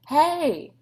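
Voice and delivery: a high, loud call to the tiger; shouted hey. A narrator's reading. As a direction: call out to grab the tiger's attention. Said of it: "Beauchamp shouted".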